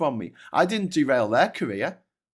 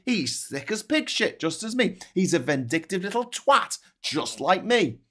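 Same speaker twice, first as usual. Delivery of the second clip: mocking voter; 5 semitones higher than usual. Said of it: "and they're like".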